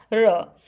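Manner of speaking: र as a short half sound, not a full रे. Shown as a demonstration. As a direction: say only a brief र. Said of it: "पूरा रे नहीं बोला जाता इसको". (र को आधा बोलें, पूरा रे नहीं)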